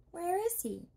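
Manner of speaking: a bird calling down to strangers; stork. A narrator's reading.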